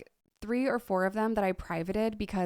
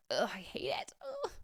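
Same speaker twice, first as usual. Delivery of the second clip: whispering; 7 semitones higher, 7 dB quieter than usual. Real, not acted. Cringing at own video.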